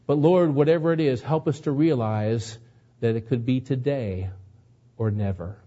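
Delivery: earnest, measured pastoral prayer; closing prayer. Acted. Pastor praying for the congregation at the sermon's end, earnest and measured. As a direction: pray over the congregation gently.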